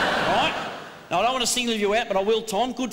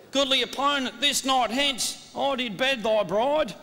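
Elizabethan verse. Shown as a demonstration. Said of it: "give him a bit of iambic chatometer".

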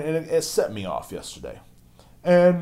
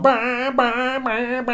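very high bleating engine noise; dirt-bike kid noise; 6 dB louder, much slower than usual. Retold or imitated. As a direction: imitate kids buzzing around like dirt bikes. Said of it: "running around going".

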